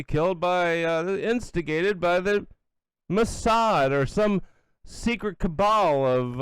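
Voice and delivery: high, slowed mock-innocent imitation; mocking Joe Kent. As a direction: ham up a weaselly denial. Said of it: "He's like".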